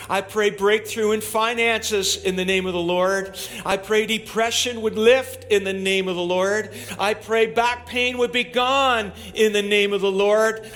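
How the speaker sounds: loud, high fervent prayer; preaching prayer. Acted. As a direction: pray it out with full force. Loud fervent prayer over congregation.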